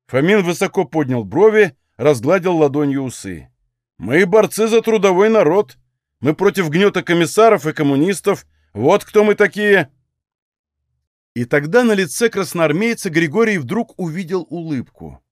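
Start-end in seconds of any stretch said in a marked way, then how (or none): 4.0-9.9 proclaiming. Acted. Proud declaration of allegiance.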